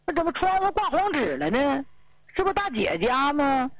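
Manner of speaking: spot the 窗户 and gasp out the question; startled. Retold or imitated. Looks up, sees yellow paper. (惊讶地高声发问，重读“户”)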